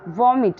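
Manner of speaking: "वॉमिट" with a short open first vowel; "वॉमिट" stressed on an open first syllable; correct pronunciation of vomit. Shown as a demonstration. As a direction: say "वॉमिट" as VOM-it. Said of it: "ठीक है, तो वॉमिट".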